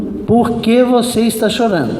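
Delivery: retold insistent demand; insistent questioning. Preacher presses the crying girl for a reason, insistent.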